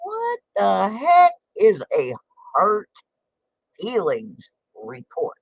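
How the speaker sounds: disbelieving, slow and high; what the heck, mock outraged; incredulous. Real, not acted. To her viewers, an incredulous slow question. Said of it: "had been filed".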